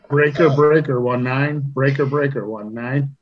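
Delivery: CB radio call. Acted. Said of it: "That's my C-, C B chat".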